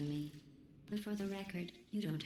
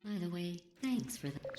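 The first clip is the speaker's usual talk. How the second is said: sarcastic; 3 semitones higher than usual. Acted. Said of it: "Sarcasm self-test complete".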